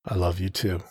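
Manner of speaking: quiet, tender reply; soft. Acted. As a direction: answer her softly. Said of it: "I said back softly".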